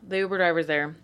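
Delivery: hushed dramatic whisper. Real, not acted. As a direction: drop to a whisper for suspense. Whispered suspense in story.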